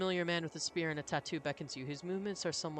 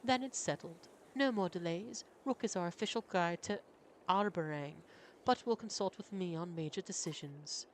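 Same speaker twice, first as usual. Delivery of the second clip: put-on higher, proud young prince; 4 semitones higher than usual. Prince answering the governor, higher and defiant. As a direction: voice him high and defiant.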